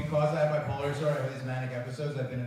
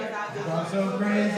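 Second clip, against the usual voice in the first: fake French; 4 semitones higher than usual. Shown as a demonstration. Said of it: "One, two, three".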